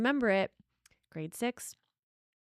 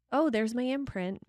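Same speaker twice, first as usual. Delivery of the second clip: calm recognition; 4 semitones higher, 3 dB louder than usual. Shown as a demonstration. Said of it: "it's very different than".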